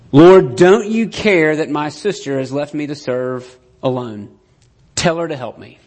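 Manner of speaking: loud, scolding complaint; a pushy, put-upon demand; indignant Martha. Retold or imitated. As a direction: tell the Lord off like you know better. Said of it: "So you hear in Martha's tone, like, she knows better".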